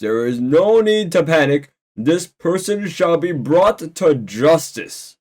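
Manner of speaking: slightly hammed-up public address; speech to the crowd. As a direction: declare it like a solemn leader. Santa's speech to the room.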